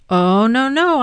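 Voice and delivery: loud, rising quick objection; quick protest. A narrator's reading. Avi quickly objecting to Hamudi taking the cats. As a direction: jump in to stop him. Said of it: "Avi said quickly".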